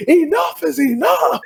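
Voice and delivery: put-on quiet kid snapping. Imitating Timmy in the corner, slow and strange. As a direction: drag it out like the quiet kid at the end of his rope. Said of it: "Like Timmy in the corner".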